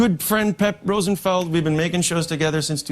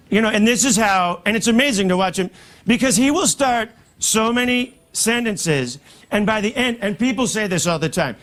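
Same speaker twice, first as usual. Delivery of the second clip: Trump impression; 3 semitones higher than usual. Trump-style rambling speech.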